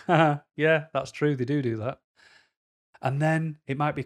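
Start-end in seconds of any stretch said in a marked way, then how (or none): 0.1-2.0 amused reader. Retold or imitated.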